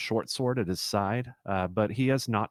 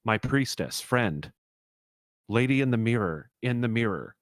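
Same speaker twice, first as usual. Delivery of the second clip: frantic kenku pleading in bursts; 3 semitones higher, 4 dB louder than usual. Acted. Kenku pleading toward his priestess in the mirror, frantic. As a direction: plead urgently in short, raised bursts.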